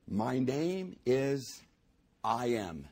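slow, hushed reading of God's words; slow poem reading. Acted. Preacher reading God's words to the congregation, slow and hushed. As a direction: let each word hang, unhurried.

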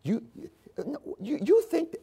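soft, menacing whisper-like voice; soft, menacing Satan voice; sinister Satan. Retold or imitated. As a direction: hiss doubt into his ear quietly. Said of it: "Satan literally says to Jesus".

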